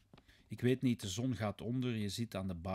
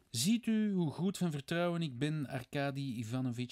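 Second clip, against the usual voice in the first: higher, louder impression of a wife; imitating his wife; 6 semitones higher, 4 dB louder than usual. Svidrigailov quoting his wife to Raskolnikov, imitating her higher voice. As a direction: quote her in a raised, lifted voice. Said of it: "zei ze".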